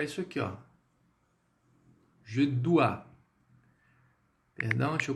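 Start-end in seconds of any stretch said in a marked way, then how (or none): 2.2-3.0 "Je dois" said as zhe DWA; French pronunciation. Shown as a demonstration. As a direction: model "Je dois" with the ending as "dwa". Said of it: "je, a pronúncia". (pronúncia modelo de "Je dois")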